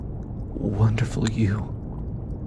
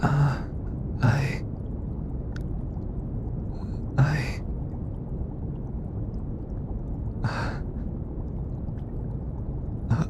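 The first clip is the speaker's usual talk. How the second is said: halting, higher-pitched fumbling for words; flustered stammer; 5 semitones higher, 7 dB quieter, slower than usual. Acted. Speaker flustered by close companion, halting stammer. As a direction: stammer with long gaps, lost for words.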